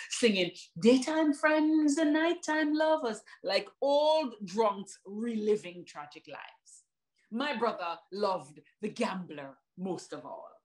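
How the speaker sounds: rhythmic poetry performance with rising peaks; spoken word poem. Acted. Poet telling the audience about her brother, in slam rhythm.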